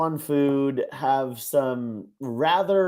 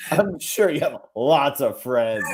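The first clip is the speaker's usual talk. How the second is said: sarcastic. Shown as a demonstration. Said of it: "could have been total sarcasm".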